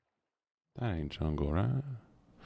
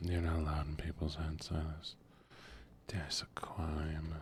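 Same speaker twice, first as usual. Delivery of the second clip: whisper; 6 dB quieter than usual. Real, not acted. Whispering to chat about the crime. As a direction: breathe it out under the voice. Whispered aside while gaming.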